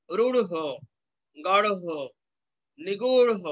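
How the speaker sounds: rh in রূঢ়, গাঢ়, নিগূঢ় sounded fully with an h release; each of রূঢ়, গাঢ়, নিগূঢ় said separately, aspirated ending; careful rh pronunciation. Shown as a demonstration. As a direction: spell out the breath after the r in রূঢ়, গাঢ়, নিগূঢ়. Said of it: "এরকম উচ্চারিত হবে".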